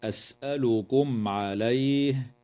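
أسألكم عليه with the meem of أسألكم pronounced clearly before the ain; أسألكم عليه with a clearly sounded meem. Shown as a demonstration. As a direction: keep the m of أسألكم distinct, no nasal blending. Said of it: "وتظهر الميم الساكنة عند العين".

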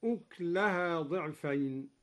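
أكلها said as uklaha, kaf without vowel; أكلها clipped to two quick syllables; silent kaf vowel. Shown as a demonstration. Teacher showing Duri's sukun on kaf. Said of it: "هكذا".

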